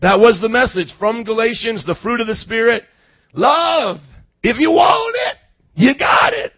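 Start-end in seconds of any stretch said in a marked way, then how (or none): 3.3-4.0 preaching. Retold or imitated. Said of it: "that's what I just kept preaching". 4.4-6.5 preaching shout. Retold or imitated. Young preacher shouting his first message. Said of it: "that's what I just kept preaching".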